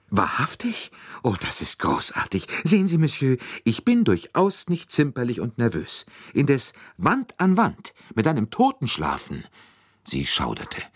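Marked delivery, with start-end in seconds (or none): 0.1-9.4 high, animated lady, dramatically emphatic; gush, then dwell on the horror in high pitch; effusive Mrs. Hubbard. Acted. Lady thanks and explains her dread, high and dramatic.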